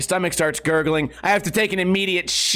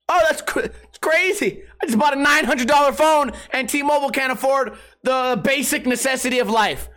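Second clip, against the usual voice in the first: incredulous outrage; 3 semitones higher than usual. Retold or imitated. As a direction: complain like it's a scandal. Outrage at no toilet.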